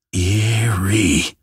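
drawn-out, hushed creepy remark; spooked. Acted. Investigator reacts to something eerie, spooked.

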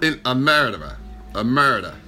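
mock Aussie twang, not quite landing; botched Australian accent. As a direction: mimic an Australian accent and miss. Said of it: "I don't know what accent that is now".

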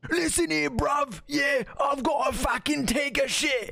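slow, strained mock British accent. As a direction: ham up a British bloke accent, slowly. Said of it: "that hurts my throat".

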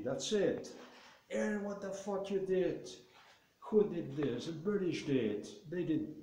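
high-pitched, outraged Russian officials ranting; alarmed Russians. Retold or imitated. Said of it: "alarmed Russians in Moscow, it was like".

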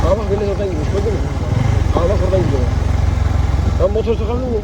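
shouting over engine noise. Real, not acted. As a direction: call out loud over the roar.

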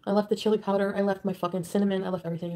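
loud, bitter listing; angry rant. Real, not acted. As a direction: spit out each thing she left. Listing what she left, angrily.

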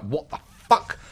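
imitating a driver's startled shock; shocked what the. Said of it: "his eyes just opened, like".

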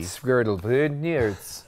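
gibberish imitating Norwegian; mock Norwegian. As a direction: garble words like mock Norwegian. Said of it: "Norwegian is a very interesting language".

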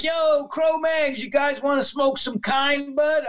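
lightly voiced stoned rocker; stoned offer. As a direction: drag it out like someone very high. A musician high on weed, offering.

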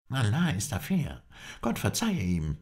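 high-pitched exclamation; calling out. A narrator's reading. Halef reacts to the lost hostage, calling out. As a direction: cry it out, pitch lifted throughout. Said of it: "rief Halef".

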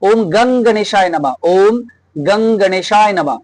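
slow chant, গং as "gung"; গং with a short neutral vowel, drawn out slowly; Hindi-style vowel. Shown as a demonstration. Teacher showing Sanskrit pronunciation like Hindi, slow "gung" in গং. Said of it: "একটু বেঁকাভাবে উচ্চারণ হয় হিন্দির মতো".

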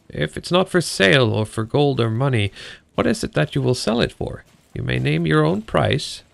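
lightly voiced princess. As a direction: tempt her lightly as the princess.

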